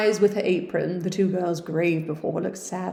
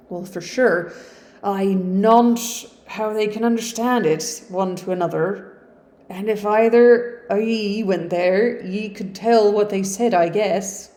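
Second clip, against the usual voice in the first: Yorkshire servant; 2 semitones higher, 6 dB louder than usual. Acted. Hannah in Yorkshire dialect.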